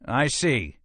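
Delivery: high-pitched, cowed reply; faltering. Acted.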